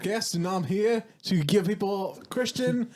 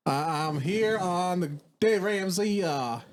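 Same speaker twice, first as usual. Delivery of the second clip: put-on British accent; 3 semitones higher, slower than usual. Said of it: "get this freaking accent done".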